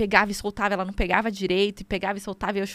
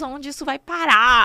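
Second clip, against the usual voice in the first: espantada; 6 semitones higher, 6 dB louder, slower than usual. Retold or imitated. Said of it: "E eu falava".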